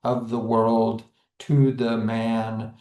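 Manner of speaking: "of the world, to the man", light beats landing on the noun; two light beats, then weight: of the WORLD, to the MAN; stress on last word. Shown as a demonstration. Teacher showing pyrrhic turned anapest, stress on last word. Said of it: "paired with a stressed syllable".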